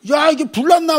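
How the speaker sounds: high, loud startled shout; startled alarm. Retold or imitated. Preacher reenacting waking to banging door, alarmed. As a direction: jump up thinking there's a fire.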